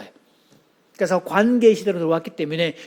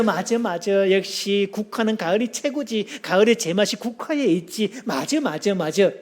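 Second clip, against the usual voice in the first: agreeable chiming in. Shown as a demonstration. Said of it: "맞장구 할 때는".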